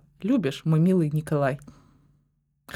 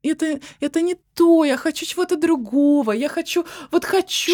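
whiny demand; 6 semitones higher than usual. Acted. Role-play girlfriend demanding romance.

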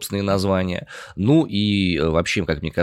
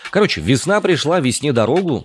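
ironic cheer; 8 semitones higher, 3 dB louder than usual. Real, not acted. Ironic cheer about wet snow.

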